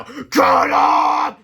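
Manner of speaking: put-on low, loud old lady shout; old ladies shouting. A narrator's reading. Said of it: "shouted the old ladies".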